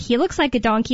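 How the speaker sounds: ordinary talk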